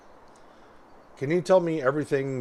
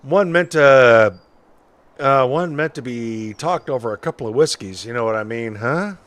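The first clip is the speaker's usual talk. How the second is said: lightly voiced folksy witness; a hint of an old-timer telling his story; old-timey witness; 5 dB louder than usual.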